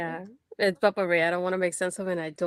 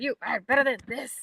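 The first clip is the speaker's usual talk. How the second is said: mock pep talk, slightly raised pitch; imitated viral TikTok line; TikTok imitation; 4 semitones higher than usual. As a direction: recite it like the TikTok sound, word by word. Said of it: "She did this like the TikTok".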